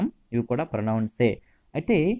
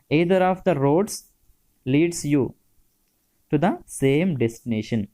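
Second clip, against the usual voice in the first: slow dictation; much slower than usual. Shown as a demonstration. Teacher dictating example sentence.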